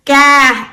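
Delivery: CA held on one level pitch, loud; Vietnamese level tone. Shown as a demonstration. Teacher shows Vietnamese tones, level CA. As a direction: say "Ca" with a long, even tone. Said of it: "seven tones in our language".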